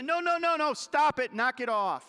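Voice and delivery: loud, high no no no, stop it; scolding yourself. Retold or imitated. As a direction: snap at your own heart to stop. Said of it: "and you say".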